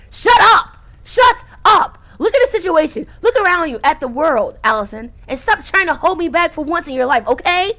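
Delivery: high, loud furious yelling; furious shout. Acted. Saturday screaming at Allison to stop holding her back. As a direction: scream at her to let you go. Character freak out acted.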